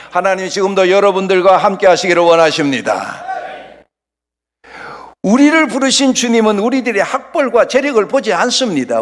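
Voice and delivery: loud, sustained preaching proclamation. Real, not acted. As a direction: proclaim it to the whole congregation. Preaches at full force. (힘주어 선포하는 설교)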